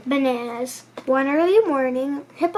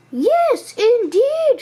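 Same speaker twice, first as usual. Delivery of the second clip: high emphatic giraffe; insist, voice up high; very high loud giraffe; 9 semitones higher, 5 dB louder, much slower than usual. A narrator's reading.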